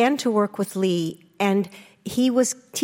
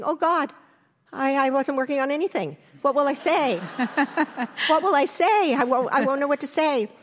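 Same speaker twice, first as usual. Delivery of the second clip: higher-pitched, flustered inner voice, half laughing; retold fluster, pitched up; mock panic; 5 semitones higher than usual. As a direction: replay a rising panic with amusement. Acts out her inner panic.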